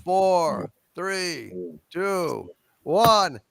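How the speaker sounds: new year countdown. Real, not acted.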